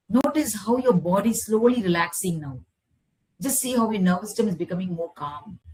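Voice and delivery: measured relaxation voice with long pauses; guided meditation. Acted. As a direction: guide them calmly back, phrase by phrase. Leads closing relaxation and gratitude.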